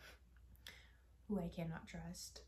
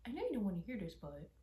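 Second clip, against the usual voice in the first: imitating mother; 4 dB louder than usual. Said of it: "she always starts it off with".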